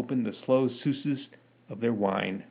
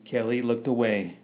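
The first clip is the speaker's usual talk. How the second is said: plain reading voice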